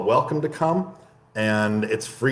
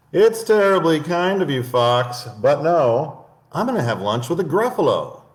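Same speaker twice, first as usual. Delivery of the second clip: high, polite mouse voice; the clever mouse turns down lunch; tiny prim mouse; little mouse; 5 semitones higher, 4 dB louder than usual. Acted. Mouse answers fox.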